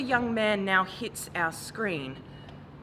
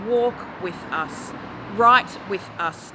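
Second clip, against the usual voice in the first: louder, insistent; loud call; 5 dB louder than usual. Acted. Poet urging Australia, much louder. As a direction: call them to write.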